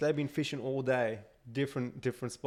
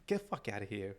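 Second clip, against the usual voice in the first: low-key, softer mock dismissal; private thought; 3 semitones lower, 6 dB quieter, faster than usual. Man silently dismissing a stranger, muted mock irritation. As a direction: say it as an unspoken thought, softly. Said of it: "I'd be thinking".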